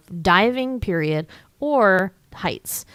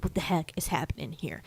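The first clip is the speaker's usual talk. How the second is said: unvoiced, hushed bewildered whisper; mock whisper; 3 semitones lower, 11 dB quieter than usual. Bastian alone with the book, whispering in confusion. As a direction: whisper it like the words are vanishing.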